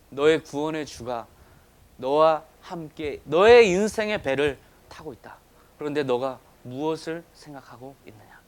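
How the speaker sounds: slow, deliberate opening, swelling then dropping; weighty, gently acted divine reply; solemn assurance. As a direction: voice Jesus with measured authority. Voices Jesus answering the believer.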